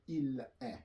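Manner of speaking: "est" said as just open "eh"; silent S and T. Shown as a demonstration. Teacher recalls the conjugation, silent S and T. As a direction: say "il est" as eel-eh. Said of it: "you just say eh".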